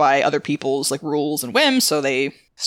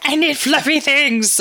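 high, slow pleading; high whiny brain voice; 10 semitones higher, 3 dB louder, slower than usual. Retold or imitated. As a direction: whine it like a tired brain. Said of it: "my brain was like".

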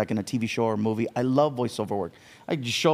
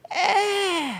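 high, dismissive meh; indifferent. Retold or imitated. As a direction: shrug it off lazily. Lazy indifferent shrug.

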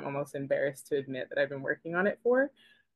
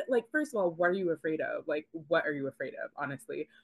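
usual speaking voice

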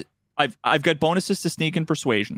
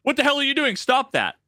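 higher, mock-angry guard yelling; game guard; 8 semitones higher than usual. Gamer retelling the guard spotting his sneak, mock shout. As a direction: play the guard catching you. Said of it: "and he goes".

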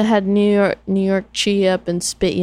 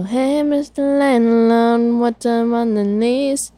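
sing-song greeting; 5 semitones higher, slower than usual. Retold or imitated. Caller greeting landlord, sing-song.

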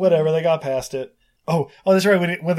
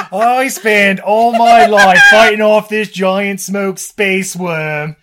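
loud, hammed-up bellow, pitched up; mock scolding rant; 6 semitones higher, 10 dB louder, slower than usual. Sun god berating his grandson over the uncle, mock furious bellow. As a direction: roar it in comic outrage.

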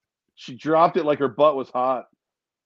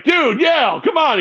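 high, louder "come on, man" at a friend; exasperated protest; 13 semitones higher, 6 dB louder than usual. Retold or imitated. Reacting to a friend's crude joke, a loud exasperated protest. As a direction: throw up your hands, half yelling. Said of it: "And I was like".

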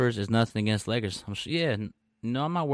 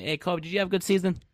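lightly imitated higher-pitched questioner; mock questioner; 6 semitones higher than usual. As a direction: raise the pitch to mimic a naive question. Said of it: "If you ask Kobe".

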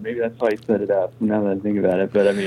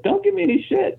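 mock tough cop; faster than usual. Cop warns, high voice.

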